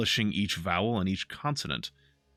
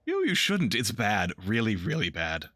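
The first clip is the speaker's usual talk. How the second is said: lightly voiced Harlequin. Harlequin warns.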